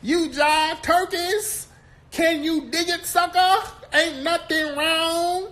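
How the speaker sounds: very high, loud, slow seventies jive parody; seventies-movie Black accent. Retold or imitated. Host mocks her learning from seventies movies, exaggerated Black accent. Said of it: "Then she went and watched some seventies movies".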